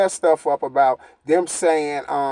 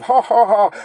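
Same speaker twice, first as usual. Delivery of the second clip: mock fake laugh; 3 semitones higher than usual. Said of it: "And then try to laugh".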